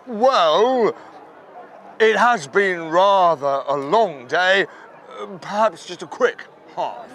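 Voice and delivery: low, unhurried; a dignified god tempted by beer; a mildly prim divine voice; reluctant God. Acted. God accepts a pint.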